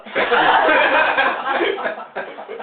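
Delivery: giggling at own fib; a short, high, breathy laugh; real breathy laughter. Real, not acted. Teller laughing after telling the audience about the fib.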